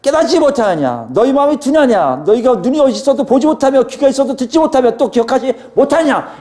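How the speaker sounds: rapid-fire rebuke, pitched high; high, insistent acted reprimand; Jesus. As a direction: fire off scolding questions one after another. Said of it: "이건 굉장히 빨리 속사포로 하시는".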